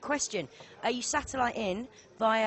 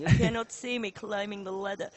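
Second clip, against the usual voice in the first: mock German accent, lightly done; a playful hint of German accent; 3 dB louder than usual. Commentator jokes about a sneaky player in a German accent. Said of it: "is that your German accent?".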